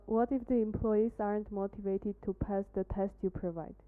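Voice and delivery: usual speaking voice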